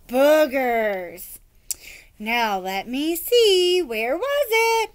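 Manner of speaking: slow, drawn-out stalling; a lightly voiced old woman playing for time.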